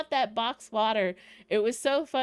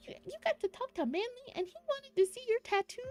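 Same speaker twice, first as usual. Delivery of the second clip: high, fast squeal of disbelief; excited disbelief; 11 semitones higher, 5 dB quieter, faster than usual. Retold or imitated. Fan gushing at friend over the tattoo moment, excited high squeal. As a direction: gush at him, too thrilled to breathe.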